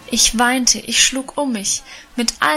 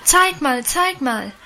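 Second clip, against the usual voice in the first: put-on higher, excited girls' chant; excited cry; 4 semitones higher, slower than usual. A narrator's reading. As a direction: pester her excitedly. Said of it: "schrien die anderen Mädchen nun auch aufgeregt". (aufgeregt rufend)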